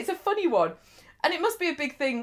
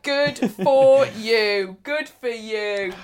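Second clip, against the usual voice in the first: mock congratulation; 3 semitones lower, 3 dB louder, much slower than usual. Mock congratulation to twinned village.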